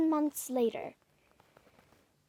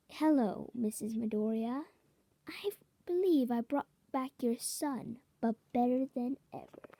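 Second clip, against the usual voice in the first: evil tone. Acted. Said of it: "he says in an evil tone".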